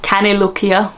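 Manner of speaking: attempted Scottish accent. Vlogger testing a Scottish accent on viewers, amateur Scottish. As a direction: try out a Scottish lilt. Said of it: "My Scottish accent's not too bad".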